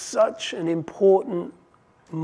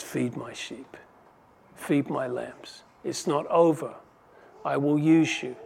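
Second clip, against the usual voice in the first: tender reassurance. Retold or imitated. Jesus gently restoring Peter.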